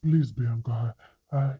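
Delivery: stammering. Acted. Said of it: "Chidi stammered".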